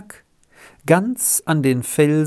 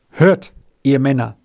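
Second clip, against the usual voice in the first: trembling voice; 5 dB louder than usual. Acted. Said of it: "mit bebender Stimme".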